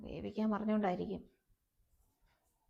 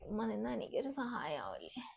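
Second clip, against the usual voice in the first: whisper; 7 dB quieter than usual. Acted. Pleading aside to mother.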